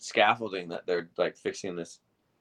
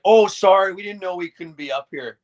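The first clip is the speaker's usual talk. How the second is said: fake innocent; 10 semitones higher, 10 dB louder than usual. Rory plays innocent to owner.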